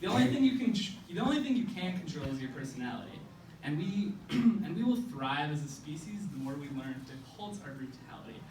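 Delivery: measured spoken-word recital with punched phrase openings; slam poem. Acted.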